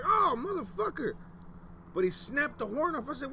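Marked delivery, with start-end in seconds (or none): 0.0-1.1 high, drawn-out shocked cry; retold disbelief, high and slow; mock shocked exclamation. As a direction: act out the shock, pitched way up. Retold reaction to crackhead's pipe.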